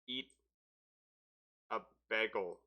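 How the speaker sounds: Canadian "bagel" with a soft, short a; Canadian accent. Real, not acted. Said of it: "Don't make fun of my Canadian accent".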